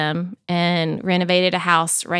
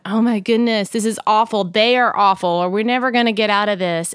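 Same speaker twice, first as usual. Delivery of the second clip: panicked; 2 semitones higher, 3 dB louder than usual. Retold or imitated. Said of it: "it was going".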